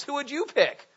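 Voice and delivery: ordinary delivery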